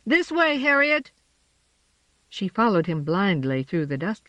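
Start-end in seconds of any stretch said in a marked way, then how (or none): 0.1-1.1 high urgent call. A narrator's reading. James guides Harriet through dust, calling high.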